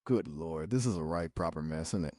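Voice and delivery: quietly dismayed in a British accent; put-on British dismay. Shown as a demonstration. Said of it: "keep talking in a British accent".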